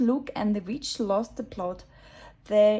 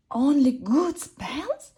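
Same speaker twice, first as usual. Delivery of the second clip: slow, scornful disbelief; huffy hiss; 4 semitones higher, 6 dB louder, slower than usual. A narrator's reading. Witch scoffing at the girl's advice, huffy. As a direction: spit it back in a huff. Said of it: "hissed the witch in a huff".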